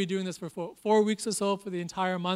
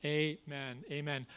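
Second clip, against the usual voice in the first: hushed congregational prayer. Acted. Leads a prayer.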